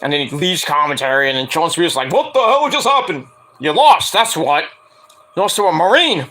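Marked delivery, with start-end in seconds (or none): 2.1-6.3 mock taunt. Spears taunting MJF, retold.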